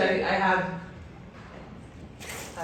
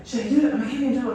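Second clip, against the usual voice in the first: players' chitter-chat; 6 semitones higher, faster than usual. Retold or imitated. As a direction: imitate players nervously egging each other on. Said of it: "hearing some chitter chat with some of the players".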